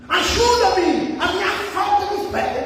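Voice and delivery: high-pitched cry for help; imitated tearful plea. Father begging Jesus for help, imitated tearful plea. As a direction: plead aloud as the desperate father. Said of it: "exclamou com lágrimas, chorando".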